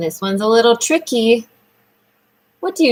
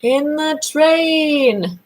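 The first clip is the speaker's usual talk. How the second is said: slow modelling; 4 semitones higher, much slower than usual. Shown as a demonstration. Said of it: "say it for me".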